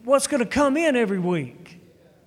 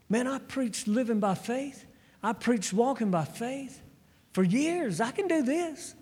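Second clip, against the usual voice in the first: acted overconfidence, pitch climbing at the end; cocky self-assurance; 2 semitones higher, 4 dB quieter than usual. Pastor assuring God he can do this, cocky. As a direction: brush off the challenge, sure of yourself. Acts out his earlier overconfidence.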